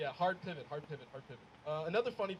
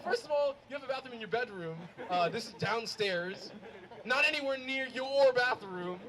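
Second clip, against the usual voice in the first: indignant; 4 semitones higher, 4 dB louder than usual. Retold or imitated. Arguing back at dad.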